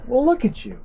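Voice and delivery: high, fawning campy voice; campy drag queen. Acted. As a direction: gush it like a flamboyant diva. GM voices CJ sizing up mom.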